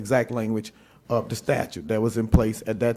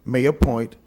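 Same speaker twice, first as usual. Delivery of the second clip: "may" slightly louder with a falling tune; stressed may appoint; 4 dB louder than usual. Shown as a demonstration. Lawyer quoting the court's italics to the council, stressing "may". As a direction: mark "may appoint" as a quoted phrase. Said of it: "quote unquote".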